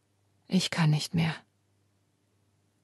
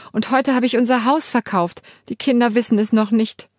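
tearful; 3 semitones higher, 4 dB louder than usual. Acted. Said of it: "weil ich so fürchterlich weinen muss".

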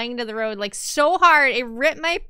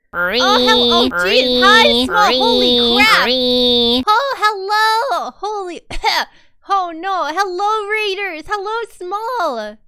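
much louder, delighted burst of surprise; excited raid greeting; 5 semitones higher, 10 dB louder, much slower than usual. Real, not acted. Streamer greets a surprise raid from Small, loud and thrilled. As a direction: blurt it out, thrilled the raid just landed. Raid arrives mid-chat.

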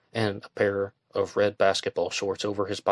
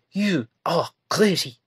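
higher, louder slow shout; 9 semitones higher, 5 dB louder, slower than usual. A narrator's reading. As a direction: yell it at him. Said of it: "she shouted".

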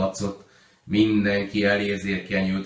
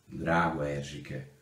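soft, slow whisper of her name; whispered back; 5 semitones lower, 8 dB quieter, slower than usual. Acted. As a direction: breathe it back tenderly, softer. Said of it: "súgta vissza Mária néni".

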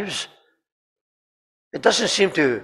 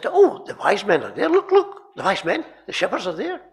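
higher, eager pointing-out; coaxing a child; 6 semitones higher, 4 dB louder than usual. Retold or imitated. Dad-like bystander shows crying girl the figures, coaxing. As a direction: urge a crying child to look.

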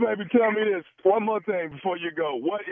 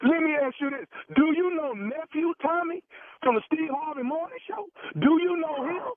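sharply higher teasing disguise; high put-on voice; 12 semitones higher than usual. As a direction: pitch it way up to tease before the reveal. Prank reveal in put-on voice.

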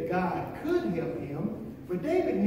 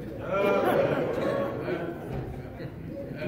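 laughing. Real, not acted. Preacher amused by his own handkerchief story, laughing. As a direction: laugh over a silly story.

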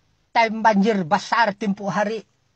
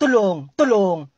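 mock cry for help; 3 semitones lower, slower than usual. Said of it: "Sanalah kamu teriak-teriak".

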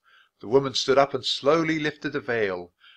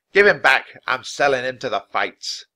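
angry yell; 3 semitones higher, 9 dB louder than usual. A narrator's reading. Bear owner yelling at children.

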